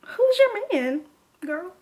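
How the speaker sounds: high, slow feigned cluelessness; mock-innocent question; playing innocent. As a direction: stretch it out as if you have no idea. Plays innocent to the friend.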